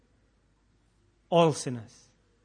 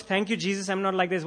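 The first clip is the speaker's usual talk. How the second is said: self-righteous Pharisee; 4 semitones higher than usual. Retold or imitated. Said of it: "The attitude of".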